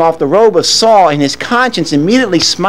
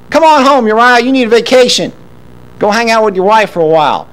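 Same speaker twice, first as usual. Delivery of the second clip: breezy coaxing Joab; 4 semitones higher than usual. Acted. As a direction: sell the vacation like a pushy friend. Joab voiced coaxing Uriah home.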